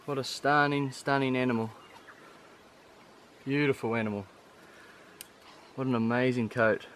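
soft, reverent words over the animal; real quiet admiration; hushed awe. Real, not acted. Hunter admires stag up close.

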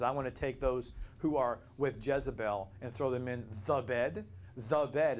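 THE in "the bed" stressed; emphatic article. Shown as a demonstration. Teacher quoting John's Revelation to show the article, emphatic. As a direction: lean firmly on "the bed" as one particular place. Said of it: "he's emphasizing".

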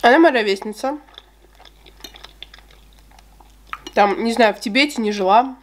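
chewing while talking; muffled through food; mouth full of cake. Real, not acted. Seen 0: Forkful of cake goes in at 1.9; chews with full mouth through 5.3.

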